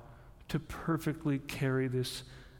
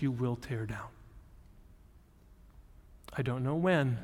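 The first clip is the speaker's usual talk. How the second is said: lower, calm and sure; quiet certainty; 4 semitones lower than usual. Retold or imitated. Psalmist trusting God, quietly certain. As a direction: say it with quiet, settled conviction. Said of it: "with utter certainty of conviction".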